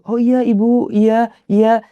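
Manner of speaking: high, deferential yeses; polite agreement. Retold or imitated. Retold polite agreeing with older woman. (mengiyakan dengan sopan, nada tinggi)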